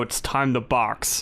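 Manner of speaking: low, slow demonic voice; slow, low possessed drawl. Shown as a demonstration. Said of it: "if you're doing a real demonic voice".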